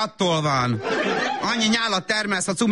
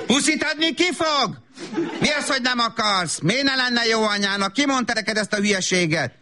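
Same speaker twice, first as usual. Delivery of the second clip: offended demanding; 5 semitones higher than usual. Acted. Mother demands kiss, takes offence.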